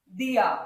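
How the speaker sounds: दिया quick, with a short दि; brief दि in दिया, no lengthening; fast short i. Shown as a demonstration. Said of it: "fast".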